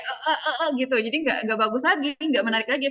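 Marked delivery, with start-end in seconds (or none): 0.0-0.7 imitated gulping for breath; mock choking gasps. Shown as a demonstration. Coach imitating a debater who forgot to breathe, choking. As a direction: choke on your words, half laughing. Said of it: "Keselak tuh jadi kayak".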